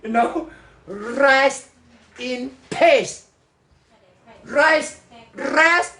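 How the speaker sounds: high, slow drawn-out mock English slang; put-on slang English. Shown as a demonstration. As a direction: stretch "rest in peace" out in a hammed-up foreign slang. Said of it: "要slang的".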